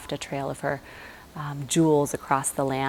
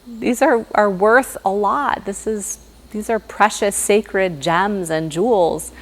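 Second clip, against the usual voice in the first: high, rising protest, louder on worth a lot; a flustered queen guarding her jewels, pitched way up; alarmed Sita; 6 semitones higher, 4 dB louder than usual. Acted. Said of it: "and she's like".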